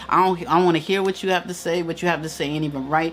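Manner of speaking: fast, dismissive know-it-all; arrogant. Retold or imitated. Mimicking how Candy used to be, fast and dismissive. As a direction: rattle it off, refusing to listen. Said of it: "That's how Candy used to be".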